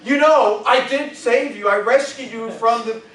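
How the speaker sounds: loud, high guilt-tripping Yiddish mother; Yiddish accent. Acted. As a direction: lay on the guilt like a Jewish mom.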